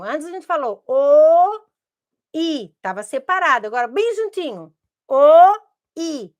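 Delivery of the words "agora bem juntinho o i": "O, i" said close together, "O" loud; letters joined together. Shown as a demonstration. Teacher showing how two vowels join into one sound. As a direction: glide "O" into "i" right away.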